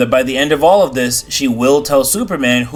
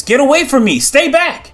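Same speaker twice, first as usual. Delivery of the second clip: scream; 13 semitones higher than usual. Acted. Hawkman reliving his nightmare, screaming at his visions. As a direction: yell them off in panic. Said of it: "And he screams".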